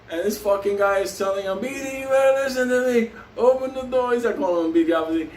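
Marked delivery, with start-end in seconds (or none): 1.6-4.1 higher-pitched, insistent order through a door; retold demand. Intruder orders trapped man to open up, retold insistent demand. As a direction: imitate the attacker demanding to be let in.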